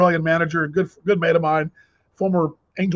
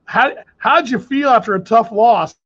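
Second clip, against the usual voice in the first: mock reporter question; 3 semitones higher, 3 dB louder, slower than usual. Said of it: "I'm paraphrasing".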